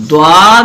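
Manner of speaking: دواد loud, with a thick "dwaad"; heavy letter. Shown as a demonstration. Teacher listing heavy letters, thick held "dwaad". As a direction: draw دواد out full-mouthed. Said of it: "جو موٹے پڑھے جاتے ہیں".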